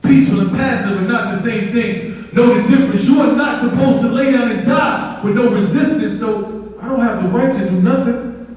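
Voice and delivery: rhythmic, emphatic spoken-word delivery; spoken-word poem. Acted. Poet recites to audience about justice, impassioned spoken word. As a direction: perform it as a driving protest poem. I'm gonna end this.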